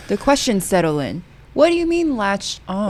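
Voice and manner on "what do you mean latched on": higher, quizzical "What do you mean latched on?"; startled question. Retold or imitated. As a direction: ask it pitched up, caught off guard. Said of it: "that's when I start asking".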